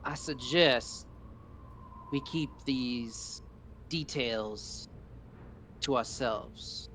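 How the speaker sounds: hushed suggestion. Acted. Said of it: "lean in and be like".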